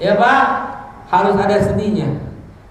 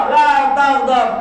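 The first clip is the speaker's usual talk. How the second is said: slow, stressed "La taghdab"; emphatic advice; 3 semitones higher, slower than usual. Retold or imitated. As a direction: press each word of "La taghdab" slowly. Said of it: "Ausini ya Rasulullah". (menekankan "La taghdab" dengan pelan)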